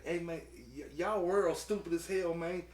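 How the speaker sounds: mock the dopey alien calling the world stupid; country alien dude. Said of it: "a little country ass, uh, alien dude".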